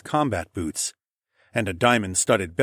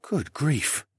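scoffing; 5 semitones higher, 4 dB quieter than usual. Acted. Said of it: "the man scoffed".

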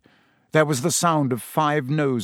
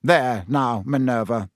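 kindly; 3 semitones lower than usual. Acted. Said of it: "said Fudge kindly".

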